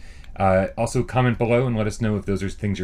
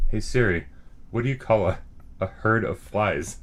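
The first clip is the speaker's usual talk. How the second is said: repeating to voice assistant. Real, not acted. Asking voice assistant.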